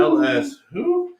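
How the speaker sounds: very high, drawn-out "who"; playful hooting. Pretend. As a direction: hoot it high and long, teasing. Hooting a team name teasingly.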